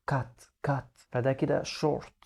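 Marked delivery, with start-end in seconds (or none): 0.1-0.9 "كات" said with a short a; short a in cat. Shown as a demonstration. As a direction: clip the a in "كات". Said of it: "هنا قلنا".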